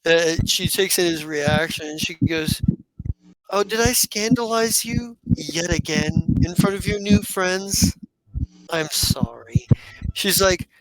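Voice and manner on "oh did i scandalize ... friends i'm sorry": lightly voiced teasing sister, a bit higher; a hint of a smug older sister; mocking sister. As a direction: needle him with fake sweetness. GM voices Sestra teasing brother.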